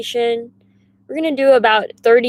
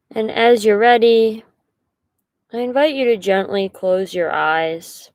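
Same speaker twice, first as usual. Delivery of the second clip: unhurried guiding voice with long pauses; guided meditation. Acted. Meditation leader invites listeners to settle into position, unhurried guiding voice. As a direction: settle them in gently, pausing between instructions.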